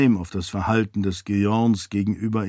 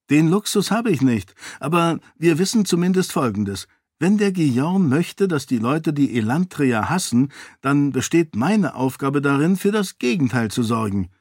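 put-on higher-pitched young lady's dialogue; lightly voiced heroine; 4 semitones higher than usual. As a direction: lift the pitch for an earnest heroine.

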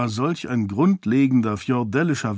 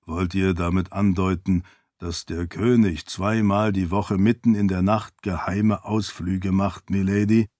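measured, slightly lowered voice of an attendant; doubtful servant; 3 semitones lower than usual. Acted. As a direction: question your lady with polite disbelief. Servant questions his lady.

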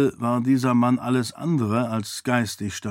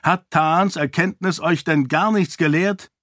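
higher-pitched, exasperated question; displeased and insistent; indignant; 6 semitones higher, 3 dB louder than usual. A narrator's reading. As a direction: scold them with a question. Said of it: "wollte Raoden ungehalten wissen".

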